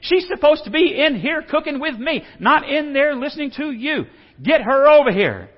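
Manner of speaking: high, loud complaining demand; fed-up sister demanding help, pitched high and loud; frustrated Martha. Retold or imitated. Martha complaining to Jesus about Mary, high and loud. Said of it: "And she's going".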